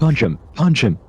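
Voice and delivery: punchy high cheer; excited cheer. Pretend. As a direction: urge the fighter on. Cheering on the fight.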